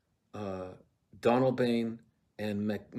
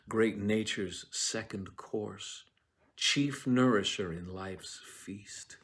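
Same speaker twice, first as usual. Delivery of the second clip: quoted verse; 4 dB quieter, slower than usual. Acted. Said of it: "he says".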